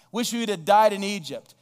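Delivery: hammed-up despairing cry; whining lament. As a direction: wail it like the grumbling crowd. Voicing the weeping complaining people.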